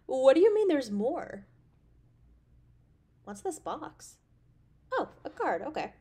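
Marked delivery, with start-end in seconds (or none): 0.1-1.5 delighted surprise. Acted. Surprised there is dessert.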